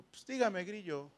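put-on a light chilango Mexico City accent, trailing off soft. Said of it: "Y con su acento del D F".

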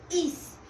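"is" said alone with firm stress; stressed syllable. Shown as a demonstration. Teacher isolating the tonic syllable of maíz, stressed "is". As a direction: give "is" full weight, held. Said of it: "se escucha con más fuerza".

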